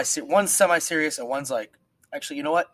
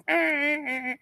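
high mocking stammer, pitched way up. Mocking the third who won't commit, high stammer. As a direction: mimic a dithering junior, high and halting.

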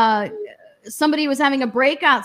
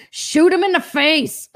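slow, laughing tough-guy line; laughing mock order; 4 semitones higher, slower than usual. A speaker joking about a class's answer, laughing and slow. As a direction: say it slowly, through a laugh. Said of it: "It'd be like".

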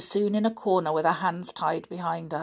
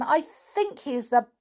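warm; 5 semitones higher than usual. Acted. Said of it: "said Anne".

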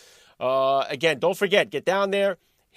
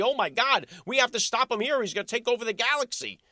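mocking panic voice; 5 semitones higher than usual.

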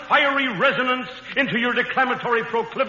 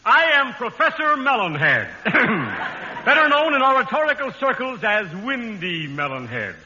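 lightly voiced pompous orator; a hint of a windbag professor. Comic professor character.

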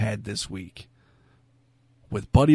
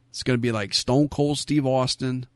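Brooklyn accent. Real, not acted. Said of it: "I said it with a Brooklyn accent".

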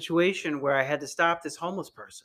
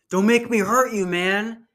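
raised, shaky mock threat; 6 semitones higher, 7 dB louder than usual. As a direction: imitate a scared man's threat, higher and louder. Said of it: "like, a shaky voice".

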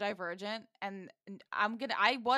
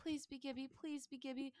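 soft, higher hopeful whisper; pleading whisper; 5 semitones higher, 12 dB quieter than usual. A narrator's reading. Narrator voices Gibby wishing to win, pleading whisper. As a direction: whisper it like a wish.

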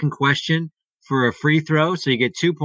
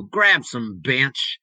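slow southern drawl, Hawk Harrelson style; southern accent; much slower than usual. Retold or imitated. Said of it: "Just like that in his southern accent".

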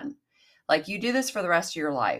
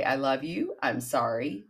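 gentle forgiving mantra. Shown as a demonstration. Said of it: "Then I go and I forgive myself".

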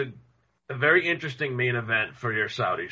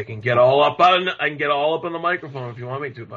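far from mic; 3 dB louder, faster than usual. Real, not acted. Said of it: "No, it still sounds far away".

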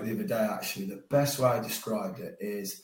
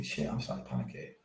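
low muttered panic; 11 semitones lower, 9 dB quieter, faster than usual. Retold or imitated. Inner panic thought.

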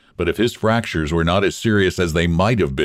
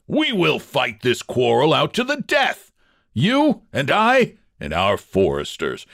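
high, hard snarling vow to fight to the death; snarling threat; 6 semitones higher than usual. A narrator's reading. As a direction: snarl the curse at your rival. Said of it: "snarled Georg".

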